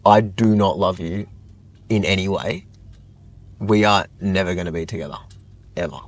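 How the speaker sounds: measured, emphatic retold rejection; brutally blunt. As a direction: spell out the rejection, leaving no hope. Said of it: "brutal. Like, I was like".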